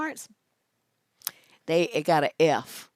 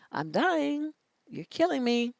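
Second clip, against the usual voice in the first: mock agony; 8 semitones higher, 4 dB quieter, slower than usual. Acting out boredom with dull dates.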